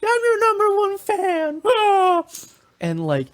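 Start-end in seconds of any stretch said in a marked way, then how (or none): 0.0-1.6 very high, drawn-out hammed-up begging; mock hysterical pleading. Clingy fan begging guests who are leaving, mock hysterical wail. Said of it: "loses her fucking shit that they're leaving". 1.6-2.2 very high put-on crying "ah"; mock hysterical wail. Fan as her guests leave, high mock wail. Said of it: "loses her fucking shit".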